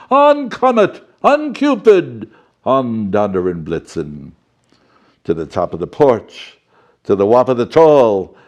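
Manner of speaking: rally the team like Santa urging them on; calling the reindeer. Acted. Santa calls out reindeer names.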